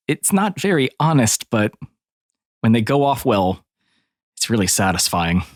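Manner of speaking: lightly voiced old campaigner confessing a pleasure; military paladin, restrained relish. Paladin admitting to enjoying ambushes, with restrained relish. In character before "out of character.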